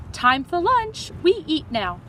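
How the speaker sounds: a hint of a calling mother, high; lightly voiced mother. Missus Park calling everyone over for lunch, lightly voiced. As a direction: call the kids to the table.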